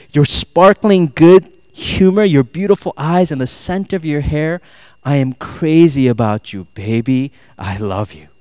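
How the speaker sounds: lightly acted lovestruck declaration; flowery love speech. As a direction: recite sweet nothings, settling into a tender murmur. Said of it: "anyone who talks like this".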